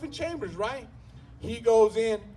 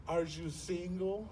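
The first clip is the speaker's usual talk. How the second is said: mock seductive hush; 4 semitones lower, 10 dB quieter, slower than usual. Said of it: "He goes".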